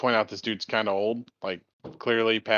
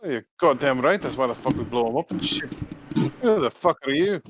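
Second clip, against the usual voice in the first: gruff Irish challenge; 3 dB louder than usual. Acted. Connor confronts the stranger at the bar, hostile and louder. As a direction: snap round at the stranger.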